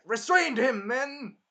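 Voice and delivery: mock captain shouting orders; barked order. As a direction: call the men to grab him. Guards' order.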